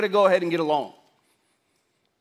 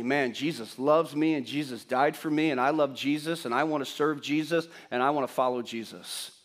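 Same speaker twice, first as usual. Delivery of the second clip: softer, lower, musing to oneself; quiet inner thought; 7 semitones lower, 7 dB quieter than usual. Retold or imitated. Pastor voicing a churchgoer leaving service, softly musing. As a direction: voice a churchgoer's private thought, hushed.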